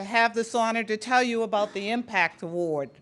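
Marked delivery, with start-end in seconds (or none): 1.9-2.9 "Impact" in a Boston accent, broad a. Real, not acted. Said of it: "you'll probably notice my Boston accent".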